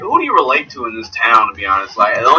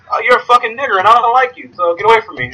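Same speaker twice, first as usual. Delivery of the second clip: raised-pitch impression of a blunt hostile local; mock rudeness, pitched up high; 10 semitones higher, faster than usual. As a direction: imitate someone bluntly brushing you off. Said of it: "Out here, people just tell you".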